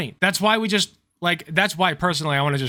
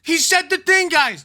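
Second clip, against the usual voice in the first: excited; 13 semitones higher, 4 dB louder than usual. Real, not acted. Thrilled the clip said it.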